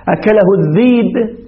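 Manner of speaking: الذيب said with a long ya, no hamza; softened hamza. Shown as a demonstration. Teacher to students, الذيب slowly with ya for hamza. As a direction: read الذيب as dheeb, slow. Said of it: "يقولون ذيب".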